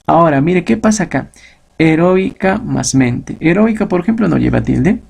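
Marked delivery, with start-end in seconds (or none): none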